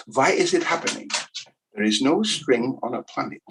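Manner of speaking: a hint of comic German accent. Lecturer voices Kepler asking why orbits happen, light German accent. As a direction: lightly play Kepler wondering about the force. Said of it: "he spoke like this".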